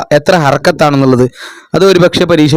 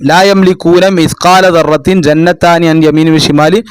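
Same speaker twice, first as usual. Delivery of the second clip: slow measured verse reading; Quran recitation; slower than usual. Shown as a demonstration. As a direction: recite evenly and slowly.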